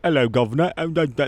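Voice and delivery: imitated Cockney greeting; rough stab at Cockney. Shown as a demonstration. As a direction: mumble it like a Cockney. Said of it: "Cockney is like".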